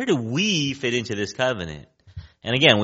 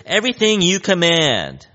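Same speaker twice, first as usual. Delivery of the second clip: higher, eager crowd saying yes; acted-out keen pledge, pitched up; wholehearted agreement; 6 semitones higher, 4 dB louder than usual. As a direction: agree wholeheartedly, lightly playing the people. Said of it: "And so wholeheartedly, everyone agrees".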